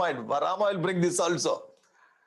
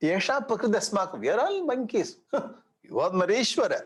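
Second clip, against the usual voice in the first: sarcastic; 4 semitones higher than usual. Shown as a demonstration. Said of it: "You have to give that kind of feeling".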